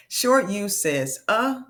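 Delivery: uh said short and slow; teacher modelling short U; short U sound. Shown as a demonstration. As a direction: clip U to uh. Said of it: "vowel demo".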